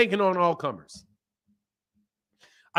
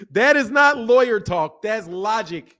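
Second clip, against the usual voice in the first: slow, louder insistence with NOT hit; firm shout at the chat; emphatic rebuttal; 2 semitones higher, 5 dB louder, slower than usual. Real, not acted. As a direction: lay down the law word by word. Heated rebuttal of a chat comment.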